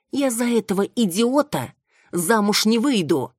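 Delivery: high, loud defiant outburst; flatly refuse, loud and high; defiant refusal. A narrator's reading. Daughter refuses marriage. (резкий, громкий отказ)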